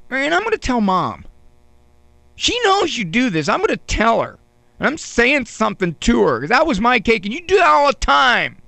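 high, whining plea with a quiver; whiny quiver. Retold or imitated. A boy whining to his sister over his lost cake, quivering. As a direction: whimper it out like a wounded kid. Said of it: "So I went on".

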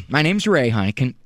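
usual speaking voice

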